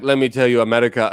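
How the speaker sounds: badly faked French accent; attempted French accent. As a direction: try a French accent and miss. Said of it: "if I met a French dude".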